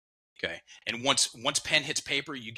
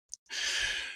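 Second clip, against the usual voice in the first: release sigh; 5 dB quieter than usual. Retold or imitated. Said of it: "the breath unlocked".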